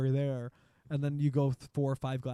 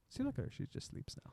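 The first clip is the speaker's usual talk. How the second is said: whisper; 10 semitones higher, 12 dB quieter than usual. Real, not acted. Pointing out a sleeping guest.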